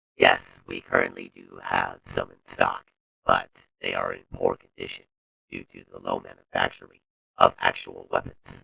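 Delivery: very deep, rough, loud voice-changer sound. Retelling what another character replied to him, in a voice-mod voice. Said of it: "I got a fucking voice mod for that".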